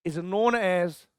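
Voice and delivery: slow, word by word dictation with long pauses; teacher dictating a definition; dictation pace. Shown as a demonstration. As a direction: dictate it for notes. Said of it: "dictating a definition slowly".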